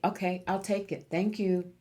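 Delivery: open, willing "Okay, I'll take it. Thank you."; grateful, easy acceptance; gladly accepting. Retold or imitated. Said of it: "That's a message for you".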